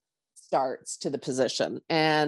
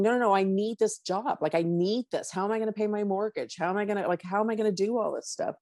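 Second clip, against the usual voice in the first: higher, anxious pleading; arguing with God; 5 semitones higher, faster than usual. Retold or imitated. Arguing with God, she pleads in a panicky higher voice. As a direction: protest fast and high, panicky. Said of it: "having an argument with God and going".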